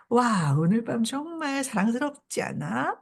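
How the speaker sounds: mildly mocking fake admiration; sarcastic. Townswoman needling a neighbour in her nightgown, lightly sarcastic. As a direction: tease with a pretend compliment. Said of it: "비아냥거리면서 하는 말입니다".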